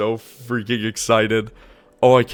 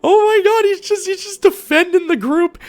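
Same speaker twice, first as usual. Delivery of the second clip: high, loud fan scream; squeal-shout with thrilled disbelief; excited screaming; 9 dB louder than usual. Real, not acted. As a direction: cheer the hero on at full pitch. Thrilled reaction to a hero shot.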